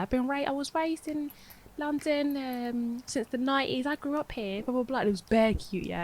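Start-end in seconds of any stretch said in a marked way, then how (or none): 0.0-5.0 higher, light Cockney London voice; Cockney accent. Retold or imitated. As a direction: imitate a Cockney auntie. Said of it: "a Somali woman with a Cockney accent".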